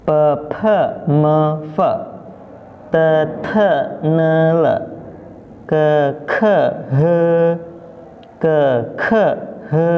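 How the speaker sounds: "pe, pe", "Te, te", "Ke, ke" each unpuffed then puffed; teacher's rhythmic model from "pe, pe" through "he"; full pinyin drill. Shown as a demonstration. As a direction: recite from "pe" to "he" in spaced schwa syllables. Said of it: "begini, dari pertama".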